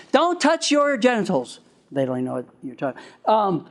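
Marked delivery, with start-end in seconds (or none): 0.1-1.6 scolding parent. Retold or imitated. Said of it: "instead of saying".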